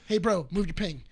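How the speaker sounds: politely nice. Retold or imitated. Buddy to a stranger he doesn't know, nice and restrained. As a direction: ask it as nicely as possible. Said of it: "trying to be as nice as possible".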